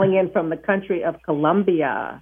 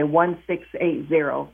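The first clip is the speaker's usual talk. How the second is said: "one six eight zero" said digit by digit; separated digits; 3 semitones lower, slower than usual. Shown as a demonstration. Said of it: "separate them and say".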